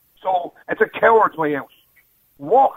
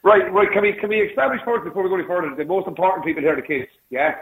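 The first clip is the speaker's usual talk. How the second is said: speakerphone echo. Real, not acted. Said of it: "Are you on a speakerphone? You sound a bit echoey".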